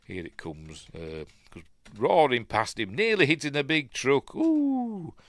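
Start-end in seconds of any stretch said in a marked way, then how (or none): 4.4-5.2 startled ooh. Retold or imitated. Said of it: "making Clint Eastwood go".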